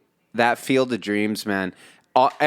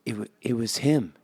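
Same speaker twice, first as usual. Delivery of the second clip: quoting Costner; 5 dB quieter than usual. Retold or imitated. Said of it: "Costner's like".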